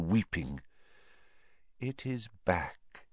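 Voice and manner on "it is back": softly. Acted. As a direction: breathe it with quiet menace. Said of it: "he said softly".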